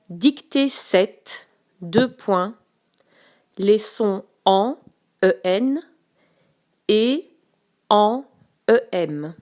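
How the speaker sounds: slow, clear dictation to pupils. Shown as a demonstration. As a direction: read it out word by word. Teacher dictating slowly to pupils.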